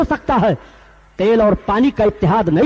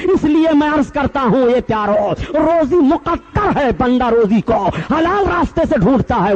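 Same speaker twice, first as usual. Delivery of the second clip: impassioned preaching; 3 semitones higher than usual. Acted. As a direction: preach it with rising fervour to the congregation. Preaches at full force. (जोशीली तक़रीर)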